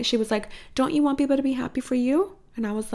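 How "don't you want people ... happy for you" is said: higher-pitched mom voice, lightly put on; retold motherly prompting, lifting into a question; mom's pointed question. Mom correcting her daughter's jealousy, pointed but lightly acted.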